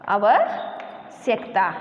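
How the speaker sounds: आवश्यकता stretched very slowly as the wrong form; drawn-out wrong pronunciation. Shown as a demonstration. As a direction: spell out आवश्यकता syllable by syllable, slowly. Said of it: "इसको, उसका उच्चारण हम गलत तरीके से करते हैं". (आवश्यकता बहुत धीरे खींचकर)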